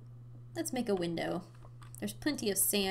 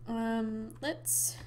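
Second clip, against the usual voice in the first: with hiccups. Real, not acted. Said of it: "I have the hiccups".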